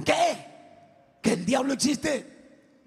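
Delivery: pregunta incrédula, aguda; incredulidad actuada. Retold or imitated. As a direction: imita a un amigo que no se lo puede creer. Acting friends' incredulous reaction. (incrédulo, con la voz subida)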